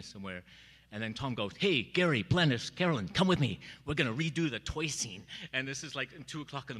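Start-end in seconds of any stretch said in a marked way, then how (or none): 1.6-5.2 louder call across the room. Retold or imitated. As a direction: summon the actors by name. Director calling actors over.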